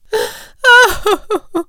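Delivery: loud, high wailing sob; crying. Acted. Mother bird is upset by the ringing, crying. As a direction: burst into hammed-up sobs. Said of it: "his mother started to cry".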